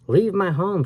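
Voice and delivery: high, strained ghostly cry; a witch shrieking at intruders; cried. A narrator's reading. Witch cries at the boy in her home: high ghostly cry. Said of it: "she cried".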